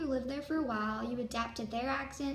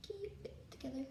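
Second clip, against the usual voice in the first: much softer murmured repeat; quiet; 10 dB quieter, faster than usual. Real, not acted. Presenter calming herself before filming, quiet murmur. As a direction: say it under your breath to yourself.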